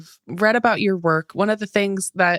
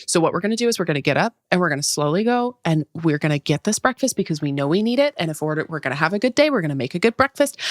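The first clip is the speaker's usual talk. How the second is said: soothing parent voice; 3 semitones lower, faster than usual. Retold or imitated. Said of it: "So literally out loud, I was like".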